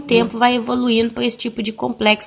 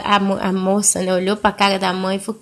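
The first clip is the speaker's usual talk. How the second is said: normal talking voice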